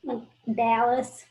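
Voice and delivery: Dallas said slowly with a Southern drawl on the A. Shown as a demonstration. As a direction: stretch the A in Dallas, Southern style. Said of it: "where the Southern comes out".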